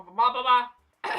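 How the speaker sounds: dragging out the blahs to wave off the interview; drawn-out blah. Real, not acted. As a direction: drag each blah out lazily. Brushing off rest of interview.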